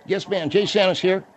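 high, squeezed-mouth mumble; mumbling. Acted. Auxiliary policeman answering a caller, mumbling high. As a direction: talk as if someone is squeezing your cheeks in.

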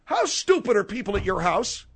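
exasperated outburst; yelling. Acted. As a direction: snap the question in exasperation. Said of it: "He doesn't like you yelling".

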